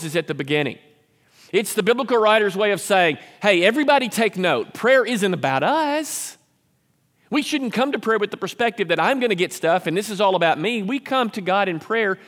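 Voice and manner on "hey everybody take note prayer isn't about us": emphatic announcement. Retold or imitated. Voices biblical writer's emphatic announcement.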